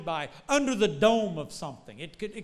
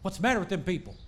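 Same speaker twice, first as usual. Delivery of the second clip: put-on Southern Missouri accent; much faster than usual. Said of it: "not speaking Southern Missouri".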